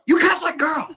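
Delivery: high taunting voice, mimicking the bully; mocking bully. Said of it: "he keeps hitting my arm".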